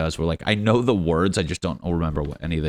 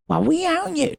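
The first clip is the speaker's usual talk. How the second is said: mock British accent; 3 dB louder than usual. Britain checking up on America, high mock British accent. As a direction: squeak out a needy British caller. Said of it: "what accent was that?".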